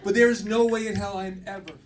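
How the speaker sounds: fake-sweet promise swelling into a loud no way; mock speech to dad. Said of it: "And I said".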